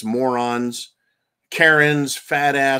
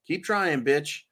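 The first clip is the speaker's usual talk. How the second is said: lightly mocking street voice, a touch softer; ghetto version; 3 dB quieter, slower than usual. Host voices a mock ghetto Hillary, mildly. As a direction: toss off a sassy street retort, barely put on. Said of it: "that's the ghetto version".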